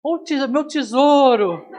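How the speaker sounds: a hint of a fussy doting mother, drawn out; teasing mock of a mother gushing over her darling; doting mother impression. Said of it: "aparece a mãe do Kiko".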